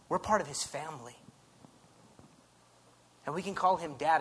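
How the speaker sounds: usual speaking voice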